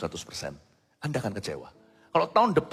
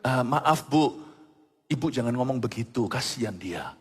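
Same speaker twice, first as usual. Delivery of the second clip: polite rebuke. Retold or imitated. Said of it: "Saya bangun dan berkata".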